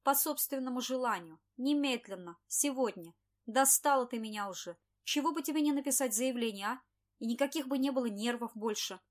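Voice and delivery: loud, hammering berating; angry boss berating. Acted.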